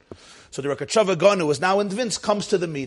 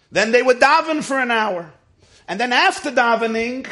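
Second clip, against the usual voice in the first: high, louder teaching delivery with sustained pitch; Talmudic exposition; 6 semitones higher, 5 dB louder than usual. Acted. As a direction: declaim the passage to a study audience. Recites and expounds a Talmud passage.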